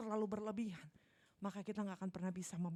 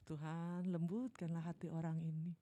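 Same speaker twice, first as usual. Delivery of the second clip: mock prayer; 3 semitones lower than usual. Prayer acted.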